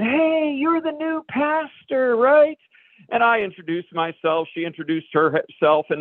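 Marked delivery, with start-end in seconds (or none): 0.0-2.6 lightly raised, slow, curious woman; a woman's voice. Retold or imitated. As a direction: greet him like a nosy parishioner. Woman greeting the new pastor.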